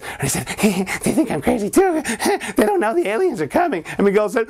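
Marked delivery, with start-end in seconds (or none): 1.0-3.8 put-on high conspiratorial child; high secretive kid; odd kid voice. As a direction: whisper a secret plot in a high voice. Other crazy boy confides.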